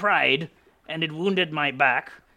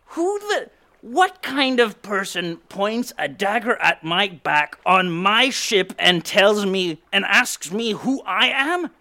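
indignant outburst; 5 semitones higher than usual. Acted. Captain demanding answers from the intruder, indignant. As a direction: huff at the nerve of it.

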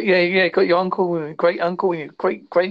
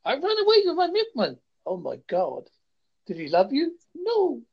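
hammy soap acting; 8 semitones higher, 3 dB quieter than usual. Parody of badly scripted show.

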